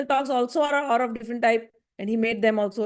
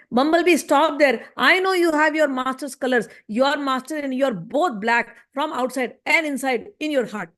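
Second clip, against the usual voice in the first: indirect scolding; 2 semitones higher than usual. Acted. Radharani scolding a bumblebee to hint at Uddhav, mildly angry. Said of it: "directly shouting at Uddhav".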